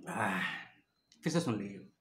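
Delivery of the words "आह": low "aah" after a drink; low exhale after a sip of water; satisfied sigh. Real, not acted. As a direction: let out a refreshed sigh.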